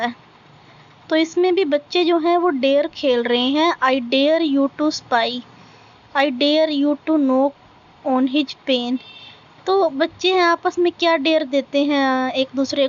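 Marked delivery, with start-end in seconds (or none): 3.8-9.0 very slow, deliberate recitation, word by word; slow poem reading. Acted. Teacher reading a poem line to students, slow recitation. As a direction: read each line out slowly for the class to follow.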